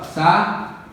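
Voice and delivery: saúdam said slowly, syllable by syllable; drawn-out saúdam as a syllable split. Shown as a demonstration. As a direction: sound out saúdam as sa-ú-dam. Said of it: "Separação aqui, ó".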